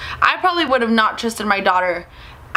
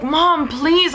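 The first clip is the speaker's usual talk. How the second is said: put-on high, whiny teen plea; retold embarrassed begging; pleading; 6 semitones higher than usual. Daughter talks back to her mom, pleading.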